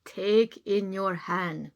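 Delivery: slow, lightly voiced wise old man. Wise old man advising the lady, slow and calm. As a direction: give calm slow advice. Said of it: "said the wise old man".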